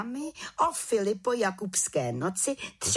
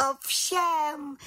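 volala; 9 semitones higher than usual. A narrator's reading. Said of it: "volala malá čarodějnice".

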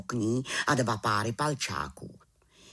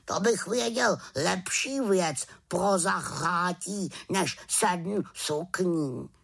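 raven voice; 5 semitones higher, slower than usual. Acted.

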